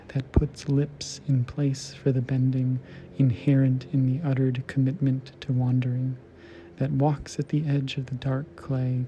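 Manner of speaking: measured, even-pitched poem recital; poetry reading. Acted. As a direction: read the poem aloud in long, evenly flowing phrases. Continues reading the poem aloud.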